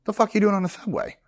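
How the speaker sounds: high, indignant mock outburst; hammed-up disbelief at the actor; mock angry stranger. Stranger scolding the actor for riding the subway, mock indignant.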